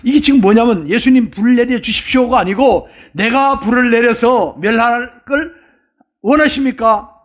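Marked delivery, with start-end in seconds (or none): 3.1-7.1 higher-pitched, mildly grandiose disciple; self-styled Elijah. Acted. Disciple offering Jesus to destroy the village himself, mildly grandiose. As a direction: lightly act the self-important zealot, drawing out the offer. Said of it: "자기가 마치 엘리야 된 것처럼".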